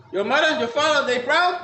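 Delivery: put-on high, rising Japanese-accented question; imitated Japanese-accented interrogation, pitched well up; Japanese judge. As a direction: challenge him as a Japanese judge. Judge asks again, acted.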